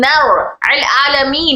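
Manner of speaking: slow Quranic recitation; very slow अल आलमीन recitation. Shown as a demonstration. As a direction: stretch अल आलमीन slowly. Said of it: "जब नून को रॉ- मिला रही थी".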